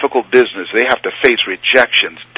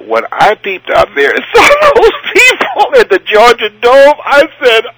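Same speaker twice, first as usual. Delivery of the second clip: retold panic; 13 semitones higher, 5 dB louder, slower than usual. Panicked at seeing the stadium crowd.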